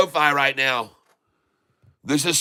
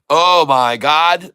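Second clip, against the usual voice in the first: awed; 3 semitones higher, 6 dB louder, much slower than usual. Real, not acted. Amazed at chart.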